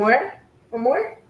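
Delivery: coaxing, rising question to a dog; pet-talk offer. Real, not acted. Offers dog another spritz.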